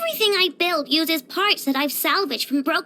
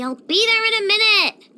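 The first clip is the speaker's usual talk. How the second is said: impatient call back; 3 semitones higher, 4 dB louder than usual. Acted. Calling back about lunch.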